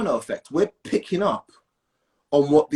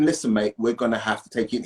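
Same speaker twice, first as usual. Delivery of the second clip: lightly voiced officer, pitched lower; a hint of a low-voiced police officer; officer reasoning; 5 semitones lower than usual. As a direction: imitate an officer levelly talking someone into custody. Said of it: "as an officer".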